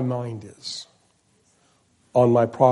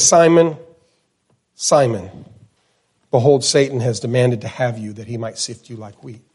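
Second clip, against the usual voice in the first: double name, softer; 5 semitones lower than usual. Shown as a demonstration. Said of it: "He says".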